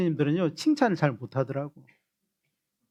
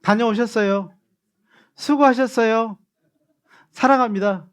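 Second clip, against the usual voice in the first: louder and higher, a cheerful greeting to model; bright greeting demo; 4 semitones higher, 4 dB louder than usual. Shown as a demonstration. Pastor models a church greeting for the congregation, beaming and loud. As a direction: greet each one sweetly and gladly. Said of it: "이렇게 하고요".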